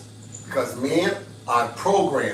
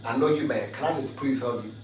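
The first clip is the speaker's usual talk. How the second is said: soft, tender plea to an angry man; soft sweet plea to calm him down; soft pleading; 4 semitones lower, 3 dB quieter than usual. Shown as a demonstration. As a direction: coax him gently, almost begging. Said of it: "Just say".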